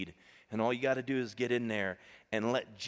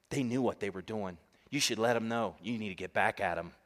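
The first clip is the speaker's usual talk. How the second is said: demonic tutor; 3 semitones lower than usual. Retold or imitated. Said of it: "comes the demonic tutor".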